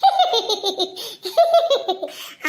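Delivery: a high, wet laugh breaking through crying; laugh through tears. Acted. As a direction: laugh while still teary. Friend jokes while she cries. (அழுகைக்கு நடுவே சிரிப்பு)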